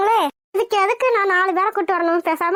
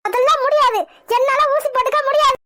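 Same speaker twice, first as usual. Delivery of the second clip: raised-voice panicky refusal; crying out; 3 semitones higher than usual. Acted. Patient refusing the nurse's injection, crying out. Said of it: "ஐயோ, கத்தாதீங்க madam".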